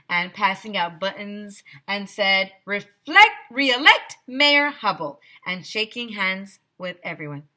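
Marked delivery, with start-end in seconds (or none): 2.6-5.2 high, loud politician pitch; campaign slogan. Acted. Mayor calling his slogan to the crowd, high and loud. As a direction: sell it like a campaigner.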